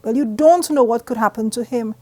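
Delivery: mother fussing over her son, pitch up and loud; fretful cross mother. A narrator's reading. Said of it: "my mother was fuming cross".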